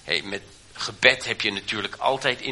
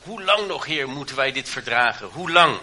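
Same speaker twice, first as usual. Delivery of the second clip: prophet's anguished cry. Retold or imitated. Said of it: "profeten die roepen".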